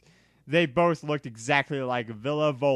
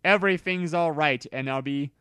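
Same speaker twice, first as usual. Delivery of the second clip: sensitive; faster than usual. Acted. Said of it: "all sensitive".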